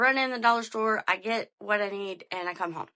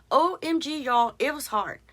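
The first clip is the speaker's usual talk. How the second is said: exasperated; 4 semitones higher, 4 dB louder than usual. Retold or imitated. Exasperated at own mistake.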